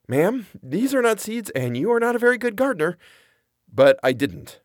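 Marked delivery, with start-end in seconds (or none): 0.1-3.0 imagined blunt scolding. Pretend.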